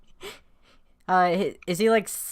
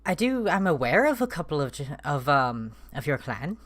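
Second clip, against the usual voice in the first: awkward. Acted. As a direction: stumble awkwardly through the answer. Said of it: "He looked kinda awkward".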